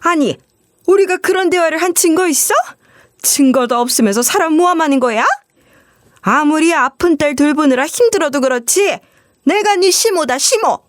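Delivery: high, huffy protest, hitting the chest; mother-in-law pulling rank, outraged; indignant retort. Retold or imitated. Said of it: "큰 소리로 이런 식으로 반박을". (시어머니가 경찰 앞에서 높은 톤으로 따지며 반박하기)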